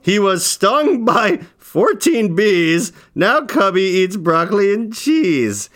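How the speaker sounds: put-on slow sing-song reading of a kids' rhyme; reading a poem. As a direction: read the verse slowly with a bounce. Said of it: "Can you read that?".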